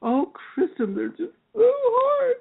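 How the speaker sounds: put-on high, slow, crying Irish accent; teacher mock-wails an Irish student's complaint. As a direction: wail it like Amelia in an Irish lilt. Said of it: "in that beautiful Irish accent she has".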